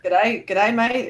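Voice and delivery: light mock-Australian greeting; hammed-up Australian catchphrase; Australian accent. Shown as a demonstration. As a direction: prompt them with a stock Australian accent. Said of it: "Is that helping a little bit?".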